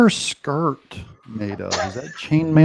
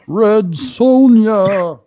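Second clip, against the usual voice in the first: surprised; 8 semitones higher, 7 dB louder, much slower than usual. Real, not acted. Surprised repeat of name.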